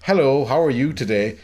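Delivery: lightly imitated actor in his normal voice; a light impression, unforced and natural; Kelsey Grammer. Shown as a demonstration. Demonstrating for the co-host how the actor normally talks, lightly imitated. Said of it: "if this was Kelsey Grammer speaking normally".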